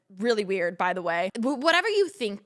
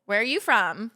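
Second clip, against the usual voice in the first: dry; 2 semitones lower than usual. Shown as a demonstration. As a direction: feign small talk with zero interest. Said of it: "I'm talking like this. Ready?".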